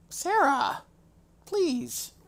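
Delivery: high, loud call to the cat; calling out loudly. Real, not acted. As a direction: call her name sharply across the room.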